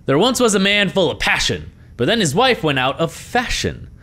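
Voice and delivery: limerick recital. Acted.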